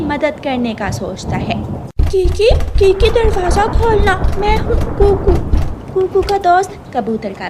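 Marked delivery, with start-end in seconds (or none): 2.1-5.3 high, loud call at the door. Acted. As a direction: shout to be heard over the rain. Calling friend through rain at door.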